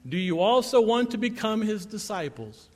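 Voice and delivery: pointed mock question, pitch lifted; sarcastic. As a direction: needle them with a leading question. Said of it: "I love the sarcasm here".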